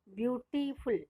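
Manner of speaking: ब्यूटीफुल split into separate sounds; ब्यूटीफुल in distinct syllable chunks; broken into syllables. Shown as a demonstration. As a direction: break ब्यूटीफुल up as ब्यूटी, फुल. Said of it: "दो अलग अलग sound में बोल रहे हैं".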